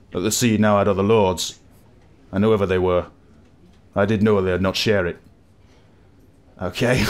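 lightly done rustic West Country sailor burr; a hint of a proud old seadog's brogue; old sailor accent. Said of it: "Apologies for my accents there".

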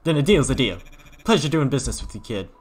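hard-sell the player like a crazed salesman; weird salesman voice. Acted. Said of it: "the weirdest character I've ever had to voice".

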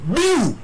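sharp high mock bang; imitated explosion. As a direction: make the blast sound with your mouth. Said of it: "nous tendons une deuxième détonation". (imitation d'explosion aiguë)

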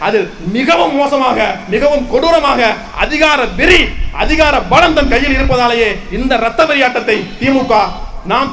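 forceful protest speech in long, punched phrases; impassioned rally oratory. Real, not acted. Party speaker denouncing a political killing to a crowd, impassioned oratory. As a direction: address a crowd with indignant conviction.

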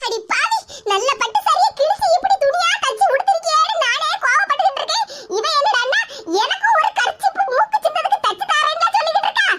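mock outrage at the daughter-in-law; outraged mother-in-law.

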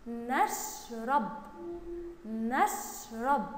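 نشرب very slowly, نش held, then رب; slow syllabic reading. Shown as a demonstration. Teacher reading along with pupils, نشرب slow and in syllables. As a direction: split نشرب after a long sh. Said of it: "نقول النون مع الشين نش".

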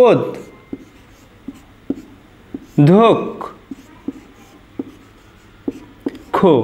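ওদ, ধোক, খো with long pauses between; correct pronunciation, syllabified. Shown as a demonstration. Teacher showing students the correct pronunciation, one syllable at a time. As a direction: say ওদ then ধোক then খো, each apart. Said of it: "এটাই আমাদের শুদ্ধ উচ্চারণ".

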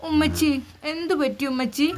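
put-on little boy worried for his mum; small son's voice. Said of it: "പൊന്നുമോൻ ഷാനു പറയുന്നു".

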